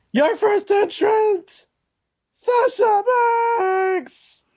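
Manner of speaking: very high, slow, yelled, terrible announcer voice.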